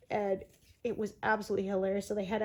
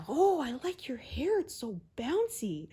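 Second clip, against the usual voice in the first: Dean complimenting; 5 semitones higher than usual. Retold or imitated. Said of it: "So he says".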